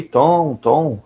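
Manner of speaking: lightly imitating a mother calling Tom; mock calling out. Teacher echoing the mother calling for Tom, a mild mock call. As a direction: call the name as if hunting for the boy. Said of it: "ela exclama ali".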